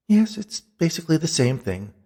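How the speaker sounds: high, exasperated concession; ghostly Beatrice. Acted. Ghost reluctantly agrees with him, high and exasperated. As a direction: concede it impatiently, pitched high.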